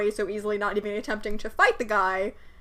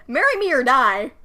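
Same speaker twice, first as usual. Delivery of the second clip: raised, loud threatening proposal; mock bandit threat; 3 semitones higher, 8 dB louder than usual. Bandit threatening the crying woman, hammed-up. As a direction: bark it like a brute bandit. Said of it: "the classic proposal method".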